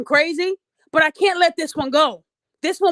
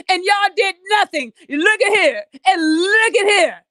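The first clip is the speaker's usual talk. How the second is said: put-on fifty-year-old woman voice. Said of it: "Sound like a damn fifty-year-old".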